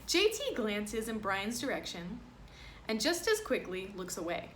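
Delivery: lively picture-book reading voice; reading to children. Acted. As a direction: read it aloud to a class. Reads picture book to class.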